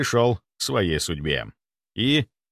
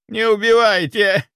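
much higher, louder pleading whine; whimpering plea; 11 semitones higher, 6 dB louder than usual. Acted. Cowering doctor begs the necromancer for mercy, whining. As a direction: beg for your life from under the table. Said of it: "скулил он из-под стола".

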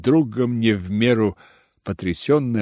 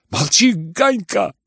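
put-on boy's shout; 9 semitones higher, 3 dB louder than usual. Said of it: "закричал Коля".

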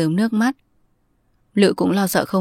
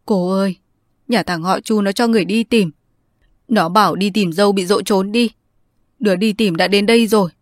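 raised, louder tearful speech; a son crying to his aunt, voice raised; 2 semitones higher, 3 dB louder than usual. Acted. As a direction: blurt it out through tears. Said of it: "John khóc rừng rức".

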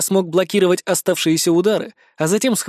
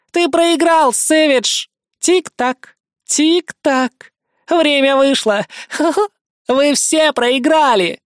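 high loud gloating cackle of a villainess; triumphant exclaiming; 8 semitones higher, 3 dB louder, much slower than usual. A narrator's reading. Dying villainess to Savage, triumphant shout. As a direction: gloat and laugh as you shout. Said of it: "воскликнула она".

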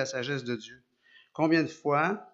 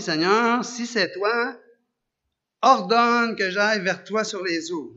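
louder, higher, urgent plea; pleading Peter; 5 semitones higher, 7 dB louder, slower than usual. Acted. Peter begs Jesus from the boat, loud and urgent. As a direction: call out across the water to Jesus. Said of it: "Pierre répondit".

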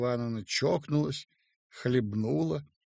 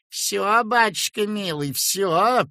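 high, louder buttery sing-song; sugary singsong; 7 semitones higher, 6 dB louder, slower than usual. A narrator's reading. Peasant woman coos at the alarmed doctor, sugary. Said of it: "пела бабочка сдобным голосом".

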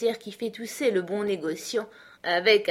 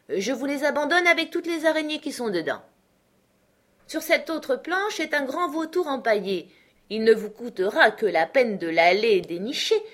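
higher, ironic voice of a jovial uncle taunting his creditor; mocking uncle Benjamin; 3 semitones higher, 5 dB louder than usual. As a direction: egg him on, all sweet mockery. Uncle lists his junk. (oncle moqueur, voix plus aiguë et ironique)

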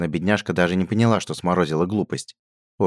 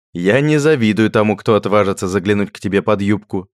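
holding back laughter; 4 semitones higher, 7 dB louder than usual. A narrator's reading. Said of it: "с трудом сдерживая смех".

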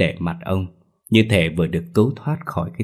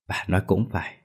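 softer, thoughtful, pondering; pensive; 6 dB quieter, faster than usual. A narrator's reading. Husband agrees with his worried wife, softer and pensive. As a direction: weigh her words quietly before answering. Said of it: "trầm ngâm nói".

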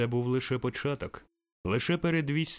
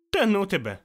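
put-on boy grumbling; 10 semitones higher, 7 dB louder than usual. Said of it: "буркнув хлопчисько".

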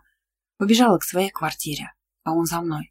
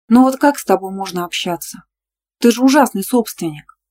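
raised, louder indignant protest; 4 semitones higher, 6 dB louder than usual. A narrator's reading. Girl scolds her boyfriend, higher indignant protest. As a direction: she bristles at his possessiveness. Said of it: "возмутилась я".

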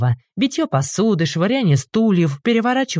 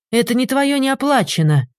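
higher strained innkeeper voice, tugging; трактирщик; 8 semitones higher than usual. A narrator's reading. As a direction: innkeeper fighting over the keg. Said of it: "тянул на себя трактирщик". (трактирщик тянет бочонок, высокий напряжённый голос)

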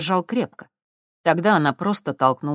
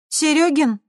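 weary; 12 semitones higher, 5 dB louder, slower than usual. A narrator's reading. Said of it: "устало проговорила Светка".

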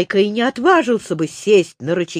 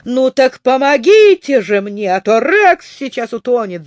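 louder urgent yell for help; 3 semitones higher, 5 dB louder than usual. Acted. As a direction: shout it in panic. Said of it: "заорал Незнайка". (громко, в панике)

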